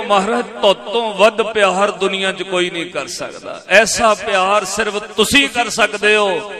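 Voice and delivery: high, impassioned retold cry of gratitude; fervent mock-weeping devotion; retold tearful praise. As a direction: proclaim it loudly, as if overcome by love. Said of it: "ਰੋ ਕੇ ਕਹਿੰਦਾ".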